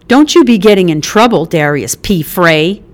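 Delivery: quick, loud motherly warning with his full name; Mickey, warning mom. Acted. Mother warning her son off trouble, quick and stern. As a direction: wag a finger with your voice.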